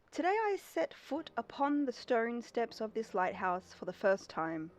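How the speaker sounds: lightly voiced old captain reading his diary; diary narration. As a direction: read it like a calm journal entry. Reads the keeper's diary aloud.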